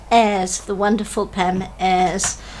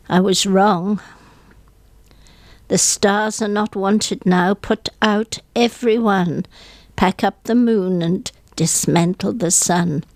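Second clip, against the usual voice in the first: mournful poem reading. Acted. Guest on radio reads a funeral poem, hushed and mournful. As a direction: let each line fall like grief.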